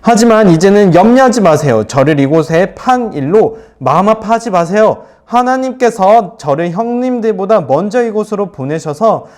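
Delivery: earnest, lightly acted plea; lightly voiced Joseph. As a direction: lightly act out a brother's reassurance. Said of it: "요셉이 이렇게 말을 합니다".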